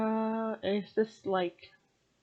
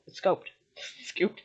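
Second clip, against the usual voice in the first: laughing correction. Real, not acted. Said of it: "scooped this sorrow".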